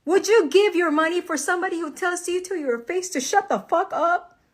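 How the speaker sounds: high-pitched, outraged rhetorical question; indignant appeal. Real, not acted. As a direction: demand an answer in real disbelief.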